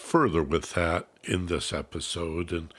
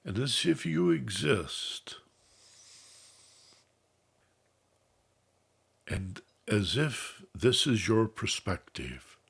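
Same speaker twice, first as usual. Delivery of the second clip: measured, unhurried instructions, easing off at phrase ends; guided meditation. Real, not acted. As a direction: calmly guide listeners into relaxation, letting phrases settle.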